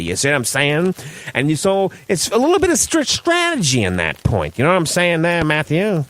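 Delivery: lightly voiced 1940s wise guy; a hint of forties tough guy; old-timey 1940s man. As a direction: talk like an old-time radio character. Plays a 1940s character.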